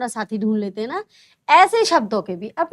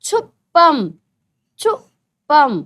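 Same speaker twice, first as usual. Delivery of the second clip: छुपम slow and loud, the छु stretched; stressing the vowel; 6 dB louder, much slower than usual. Shown as a demonstration. Teacher sounding out छुपम for pupils. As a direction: draw out छुपम so the ऊ sound is heard. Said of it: "तो छुपम में ये ऊ".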